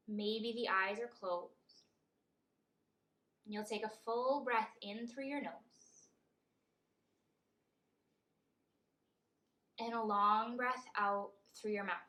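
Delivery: measured meditation guide, long pauses between phrases; guided meditation. Acted. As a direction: lead them gently through each breath, leaving room. Leads a breathing meditation.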